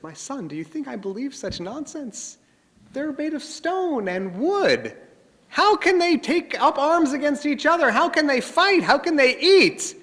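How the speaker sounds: furious father. Acted. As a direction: scold the son's nonsense with rising fury. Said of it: "turns to him furious".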